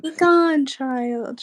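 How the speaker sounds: stern dismissal. Retold or imitated. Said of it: "she said".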